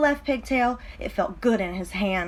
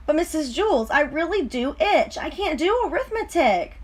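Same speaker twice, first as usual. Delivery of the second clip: mild whine; 6 semitones higher than usual. Acted. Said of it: "Dana whined".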